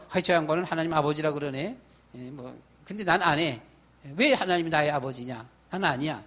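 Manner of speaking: low, quick, dismissive mutter to himself; dismissive scoff. Retold or imitated. Preacher mimicking his old self shrugging off God as father. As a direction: brush it off like it's nothing to you. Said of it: "라고 이렇게 안 했습니다".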